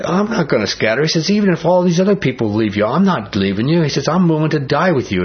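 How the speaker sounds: mildly indignant boast; insistent protest. Acted. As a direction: protest it like a confident disciple. Acting Peter's insistent boast to Jesus.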